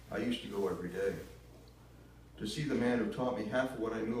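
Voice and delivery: put-on mild southern narrator accent. Grandchild recalling visits to Gramps, mild southern accent. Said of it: "a very strong southern accent".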